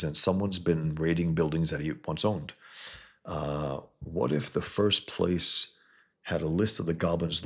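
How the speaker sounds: hero piecing together clues; reading Peter's inner voice. Acted. Reads Peter's comic thoughts aloud.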